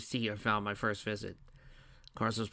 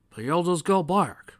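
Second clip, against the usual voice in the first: disappointed; 7 semitones higher, 9 dB louder, slower than usual. A narrator's reading. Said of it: "He sounded disappointed".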